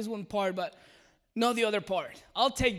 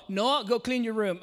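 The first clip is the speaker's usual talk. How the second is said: louder parental order; stern dad command; 3 semitones higher, 6 dB louder than usual. Retold or imitated. Dad ordering his three-year-old son, loud stern command. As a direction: call it across the house firmly.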